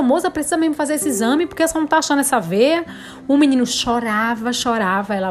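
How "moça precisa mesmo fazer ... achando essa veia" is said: anxious plea. Retold or imitated. Mother pleading with nurse over son.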